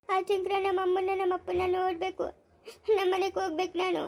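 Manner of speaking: soft, tearful, homesick plea; tearful pleading. Acted. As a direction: plead to husband through tears. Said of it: "ಅದಕ್ಕೆ ಕಳ್ತಾ ಇದೀಯಾ". (ಅಳುತ್ತಾ ಗಂಡನಲ್ಲಿ ಬೇಡಿಕೆ)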